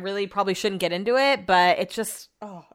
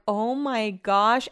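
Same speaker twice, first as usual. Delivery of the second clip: slow exasperated sigh; much slower than usual. Retold or imitated. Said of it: "I'm like".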